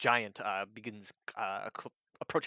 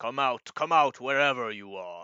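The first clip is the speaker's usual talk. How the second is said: loud, booming giant voice calling out; 2 semitones higher, 7 dB louder than usual. Voicing a giant searching the rubble for the hiders: giant's voice. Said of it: "it's like".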